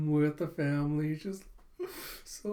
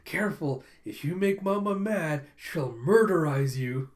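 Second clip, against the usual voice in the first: mock-serious warning. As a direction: warn him with exaggerated seriousness. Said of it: "Anya telling him all seriously".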